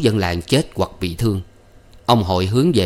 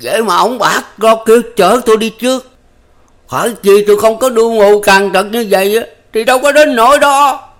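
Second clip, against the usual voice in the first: high, loud, strained cry of bitter rage; rít lên cay đắng; hissing in anguish; 14 semitones higher, 8 dB louder than usual. A narrator's reading. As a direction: spit it out through pain. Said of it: "rít lên".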